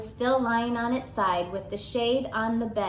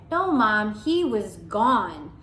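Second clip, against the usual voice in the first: put-on insistent child; 4 dB louder, slower than usual. Simon insists.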